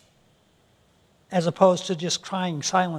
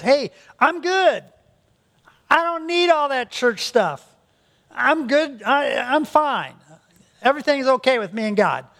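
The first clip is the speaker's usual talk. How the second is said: higher, breezy self-satisfied voice, slowing on the first lines; smug hypocrite; 5 semitones higher than usual. Retold or imitated. Preacher mimics a self-assured churchless hypocrite, high and smug. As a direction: brush off church as if needing nothing. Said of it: "someone who says".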